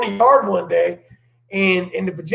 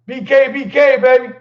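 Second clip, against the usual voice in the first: loud, raised shout-out to a friend; calling out; 3 semitones higher, 4 dB louder than usual. Real, not acted. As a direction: holler his name across the room. Shout-out to a buddy coming home.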